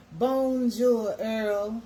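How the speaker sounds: high, loud sing-song bonjour; cheery French greeting. Shown as a demonstration. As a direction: call out a bright hello to Charlene. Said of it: "that's my French".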